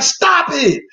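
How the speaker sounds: high, frantic mock yelling; mock panicked boyfriend. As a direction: play the helpless boyfriend shrieking at a bear. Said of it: "Craig gonna be like".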